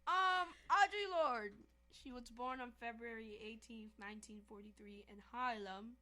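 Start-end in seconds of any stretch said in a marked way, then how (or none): 0.1-1.5 fake British accent. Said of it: "stop with the accent".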